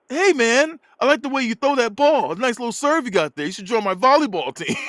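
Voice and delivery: high-pitched white guy impression; mock white-dude voice, high; random white dude. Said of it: "this one random white dude goes".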